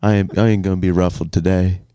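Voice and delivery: low, lightly put-on weird voice; weird character voice. Podcaster listing picnic food, weird character voice. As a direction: slip into an odd low character. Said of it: "What is this voice?".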